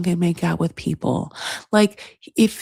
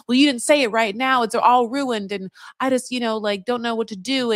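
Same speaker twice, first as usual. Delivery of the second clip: higher mock-aggrieved voice; exasperated complaint; 5 semitones higher than usual. Girlfriend arguing with Edward at dinner, exasperated. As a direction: retell it as a wronged girlfriend. Acted quarrel of a couple.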